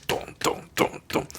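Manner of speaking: low-volume thudding drumbeat; steady vocal drum thumps; imitated war drums. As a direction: mimic pounding on a table. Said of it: "维京人战鼓一样".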